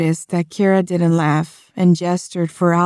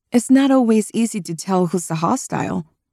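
ordinary delivery

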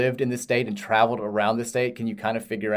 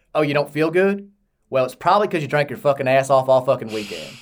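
put-on slight Kentucky twang, faster pace; 3 semitones higher, 5 dB louder than usual. Quoting the spouse's reply to a hungover morning, imitating a slight Kentucky twang. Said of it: "she has like a little bit of a twang".

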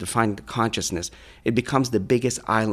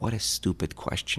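faint, barely-there whisper, slight voice; 5 dB quieter than usual. Retelling what a long-silent person finally said, quoting in a very slight voice. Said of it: "in a very slight voice".

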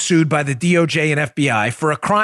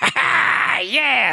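put-on laughing radio caller voice, higher pitched; 9 semitones higher than usual. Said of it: "that's what he sounds like".

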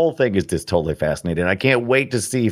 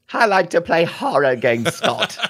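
higher, unidentified put-on accent; 8 semitones higher than usual. A streamer imitates how another person says a sentence, unidentified put-on accent. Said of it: "I don't know what accent that is".

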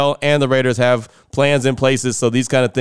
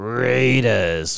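sports-announcer style call. Reading out one more text: Chris Berman voice. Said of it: "In my Chris Berman voice".

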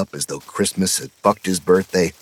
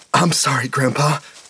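wheezy, pitched-up, out-of-breath gasp of words; 7 semitones higher than usual. Narrating a story, a boy hurries back to apologize to his grandpa, wheezing. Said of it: "he wheezed".

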